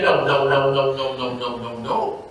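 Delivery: string of no's sinking in pitch and volume; dismissive refusal. Retold or imitated. Preacher quoting Paul's answer to the church, dismissive.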